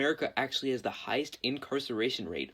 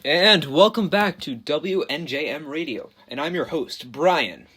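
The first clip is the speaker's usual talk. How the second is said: slow, loud on-air radio host intro; booming station welcome; radio announcer; 8 dB louder, slower than usual. Acted. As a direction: open the show like a DJ. Radio host reopens the show.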